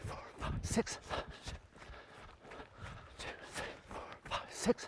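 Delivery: whispered, very soft count; hushed cadence count; counting along. Real, not acted. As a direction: breathe the numbers out in running rhythm. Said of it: "I'll count for you, with you".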